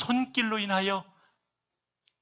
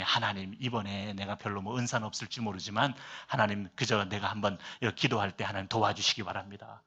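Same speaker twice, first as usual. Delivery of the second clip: low, soft murmured prayer; hushed, lowered praying voice; quiet inward prayer; 6 semitones lower, 5 dB quieter than usual. Retold or imitated. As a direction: retell a humble private prayer under your breath. Retells a pastor's inward prayer.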